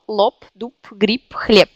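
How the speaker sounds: quick run through "lop, doup, grippe, хлеб"; said quickly. Shown as a demonstration. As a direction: rattle off the words fast. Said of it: "Si je prononce vite ces mots".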